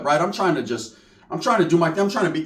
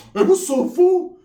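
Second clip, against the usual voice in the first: hyped greeting; 11 semitones higher than usual. Retold or imitated.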